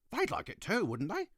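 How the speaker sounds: put-on high, curious little girl. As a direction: ask it like a small girl. Ketchup Face voiced in story.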